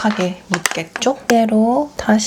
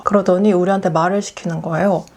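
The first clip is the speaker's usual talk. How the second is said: normal talking voice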